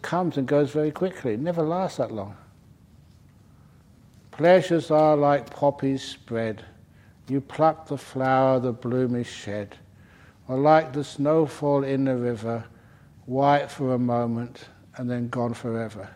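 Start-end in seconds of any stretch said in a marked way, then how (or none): 4.3-16.1 poem recital. Shown as a demonstration. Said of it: "That was Rabbie Burns".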